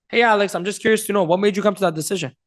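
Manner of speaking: easy, curious question; right tonality. Shown as a demonstration. Coach asking Alex about his decision, curious. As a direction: ask Alex with open-minded care. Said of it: "with the right tonality".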